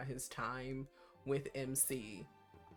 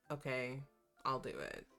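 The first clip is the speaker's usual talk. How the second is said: apathetic; 2 semitones lower than usual. Retold or imitated. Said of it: "That's like me when I'm just over it".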